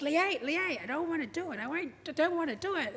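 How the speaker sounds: lightly imitating a stubborn dad; mild mock refusal; arguing. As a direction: protest like a reluctant patient. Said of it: "he would argue".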